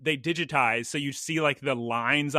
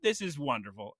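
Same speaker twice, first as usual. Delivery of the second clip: content; 5 semitones higher, 7 dB quieter, slower than usual. Retold or imitated. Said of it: "I'm thinking".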